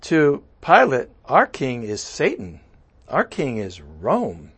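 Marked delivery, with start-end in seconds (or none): 1.3-4.5 voicing the crowd. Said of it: "So we said to Pilate".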